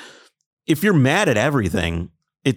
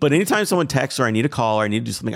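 quick, rushed telling; fast plain; faster than usual. Shown as a demonstration. Telling a friend about his trip, fast. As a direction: rattle it off quickly. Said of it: "I slow way down".

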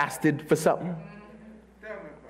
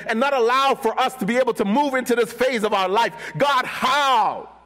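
pleading shout at God; 3 semitones higher than usual. Acted. Believer shouting at God over the blocked visa. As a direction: hurl the questions at heaven. Acted angry prayer to God.

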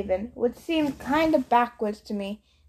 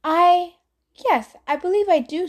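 dazed; 7 semitones higher, 4 dB louder than usual. Acted. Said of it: "blinked like someone had just woken her up".

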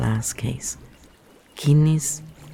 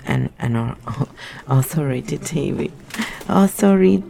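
"authoritative" tripped over mid-laugh, syllables jumbled; giggling failed try at "authoritative"; stumbling with a laugh. Shown as a demonstration. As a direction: laugh while botching "authoritative". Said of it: "I can't say this word".

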